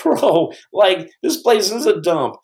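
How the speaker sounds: high-pitched instructor voice, slowing at the end; taunting drawn-out instructor impression; mock instructor. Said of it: "the instructors are going".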